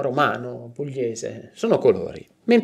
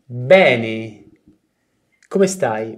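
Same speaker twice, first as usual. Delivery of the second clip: ordinary delivery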